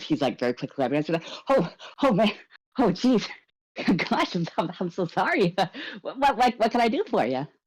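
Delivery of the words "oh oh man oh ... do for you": caught off guard, startled, flustered, higher pitch. Voicing a man at a desk, startled when approached: startled and flustered. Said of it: "he looks very startled".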